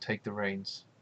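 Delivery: very soft, very quiet half-whisper. Playing a character on horseback, telling Iril to take the reins: half-whispering in character. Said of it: "I'm gonna whisper to Iril".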